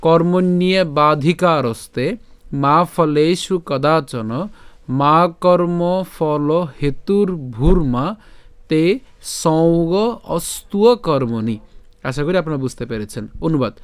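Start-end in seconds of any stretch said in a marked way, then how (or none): 0.1-11.6 slow, measured shloka recitation with drawn-out long vowels; Sanskrit verse recitation. Shown as a demonstration. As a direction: recite it slowly in careful Sanskrit. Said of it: "আবার প্রথম থেকে উচ্চারণ করি". (ধীরে শুদ্ধ সংস্কৃত উচ্চারণে শ্লোক পাঠ)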